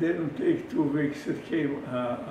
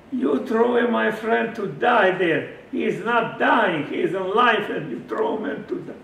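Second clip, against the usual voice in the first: angry accusation; 7 semitones higher, 9 dB louder than usual. Retold or imitated.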